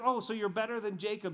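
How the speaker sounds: put-on edgy tone. Retelling a Bible story, voicing the Samaritan woman's mock edgy retort. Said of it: "she's just got this edge".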